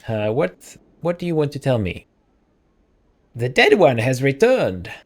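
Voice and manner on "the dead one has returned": put-on old-lady voice at the speaker's usual pitch; lightly voiced old lady announcing news; attempted old lady. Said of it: "I've lost the accent".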